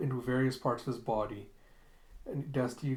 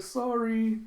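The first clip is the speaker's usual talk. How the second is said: much higher, bright call back; cheeky high apology; sing-song sorry; 10 semitones higher, 5 dB louder than usual. Retold or imitated. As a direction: chirp it over the shoulder. Alita apologises calling back.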